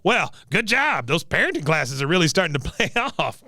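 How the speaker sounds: high sarcastic veteran impression; lightly voiced old man's mock congratulations; Cotton. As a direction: draw out the praise, then speed up. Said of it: "He goes".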